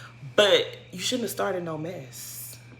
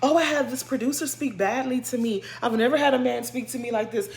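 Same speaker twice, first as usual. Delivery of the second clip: mock Karen; 3 semitones higher than usual. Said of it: "played a whole ass Karen".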